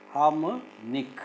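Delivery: slow "harmonic", broken before a rising last syllable; "harmonic" stretched out in pieces. Shown as a demonstration. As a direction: split "harmonic" with a clear gap before NIC. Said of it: "Can you syllabify these words?".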